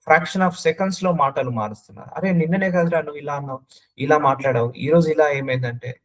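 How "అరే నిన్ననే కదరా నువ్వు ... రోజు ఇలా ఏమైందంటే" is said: mock confrontation. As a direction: quote a friend calling out a turnabout. Acts out someone challenging changed words. (నిలదీస్తున్నట్టు అభినయం)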